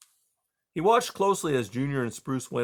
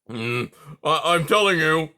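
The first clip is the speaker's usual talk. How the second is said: raised porcupine voice calling after them; cried out; 4 semitones higher, 7 dB louder than usual. A narrator's reading. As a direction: call it after the mice, insistent. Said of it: "Aerith cried after them".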